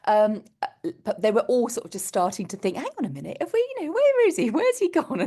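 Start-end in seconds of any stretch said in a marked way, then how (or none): 2.8-5.2 higher, rising alarm, lightly acted; mock dawning panic. Cub leaders counting heads, a hint of growing panic.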